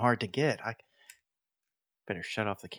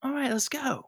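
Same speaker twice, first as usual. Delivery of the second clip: put-on talking to a child; 14 semitones higher, 7 dB louder than usual. Player talks to child.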